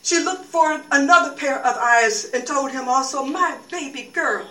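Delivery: a mild grieving murmur; grieving news. Acted. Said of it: "nodded at that face and said".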